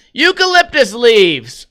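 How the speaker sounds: excited reveal. Acted. Host calls out the winning answer, excited. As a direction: announce "Eucalyptus leaves!" like a quiz host.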